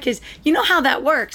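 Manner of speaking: ordinary talk, nothing marked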